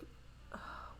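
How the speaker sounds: soft breathy worried sigh; acted sigh. Mother wondering where her son is, acted sigh. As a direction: let out a quiet pretend sigh.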